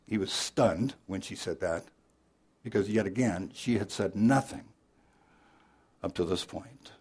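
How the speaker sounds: ordinary talk, nothing marked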